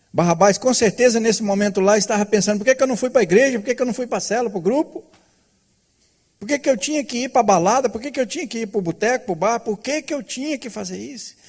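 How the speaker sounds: high, loud, fast regretful preaching; preaching at full force. Acted. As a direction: cry out Barrabás's regrets to the congregation. (pregação inflamada e aguda, cheia de remorso)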